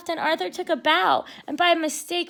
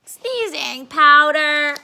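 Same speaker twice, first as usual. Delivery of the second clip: worried fretting; 3 semitones higher, 6 dB louder than usual. Acted. Arthur fretting about the sneeze prank.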